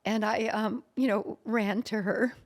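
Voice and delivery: choked up with real tears, laughing through them; crying while telling it; tearful laugh, voice breaking a little. Real, not acted. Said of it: "I burst into tears, like I'm doing now".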